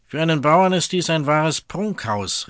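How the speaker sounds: scene: envious governor calls out at the farmer's house, angry. Acted. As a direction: sneer at the farmer's fine house. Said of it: "rief der Vogt böse".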